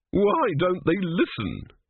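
high, drawn-out plaintive wail; tearful. A narrator's reading. High priest bemoans the gods not listening, tearful. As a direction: lament it slowly, pitched well up. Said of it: "He was in tears".

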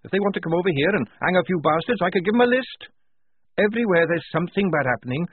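high, loud, furious rant; heated. A narrator's reading. Tonka red in the face over bullies, ranting. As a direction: pour it out angrily, pitch way up. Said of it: "red in the face".

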